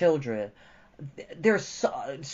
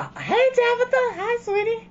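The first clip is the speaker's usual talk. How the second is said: much higher, cooing pet voice; sweet greeting; 8 dB louder than usual. Real, not acted. Greeting Tabitha the pet, high and cooing. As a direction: coo at the little one.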